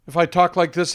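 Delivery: quick, rushed delivery; rapid talk. Shown as a demonstration. Coach demonstrating how people rush their words, rapid talk. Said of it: "When I talk like this".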